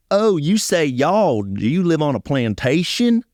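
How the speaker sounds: high, slow, mocking kid voice, set well above his own; mocking schoolmates. Kids at school mocking his accent, in a high, slow sneer. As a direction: taunt the new kid about his y'all. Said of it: "people were like".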